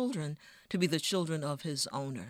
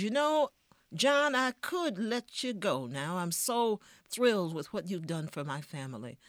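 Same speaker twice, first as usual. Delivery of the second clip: a hint of a smug master making promises; plantation owner; 3 semitones higher than usual. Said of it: "The owner of the plantation says".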